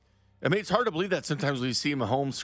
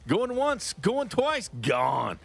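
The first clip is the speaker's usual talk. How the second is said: auctioneer; 6 semitones higher, much slower than usual. Pretend. Host jokingly auctions off caller.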